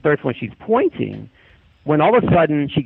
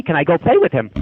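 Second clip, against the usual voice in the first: lightly voiced insistent kid, pitched higher; demanding child; 4 semitones higher than usual. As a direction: imitate a child pressing to go play. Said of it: "I'm really demanding".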